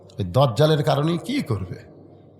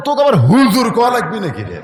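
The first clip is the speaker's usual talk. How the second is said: a laughing father mocking the son's title; 5 semitones higher than usual. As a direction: tease the son through a chuckle. Father teasing son.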